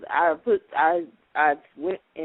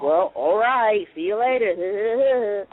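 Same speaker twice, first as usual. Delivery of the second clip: very slow, stretched-out "Well, all right, see you later"; slow drawn-out goodbye; much slower than usual. Retold or imitated. Caller slowly drawling goodbye before hanging up. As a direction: drag the goodbye out lazily.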